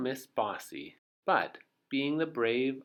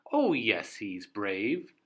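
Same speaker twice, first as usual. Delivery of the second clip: shouted; 4 dB louder, slower than usual. Acted. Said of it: "the crowd all shouted".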